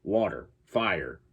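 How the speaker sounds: "Water" and "Fire" with a firm final R; hard-R imitation. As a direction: sound the R ending "Water" and "Fire". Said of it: "how he sounds like he's from New York".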